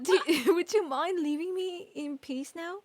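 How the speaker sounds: lightly voiced young woman, laughing; playful put-on Susato voice; Susato impression. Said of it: "did you like my Susato impression".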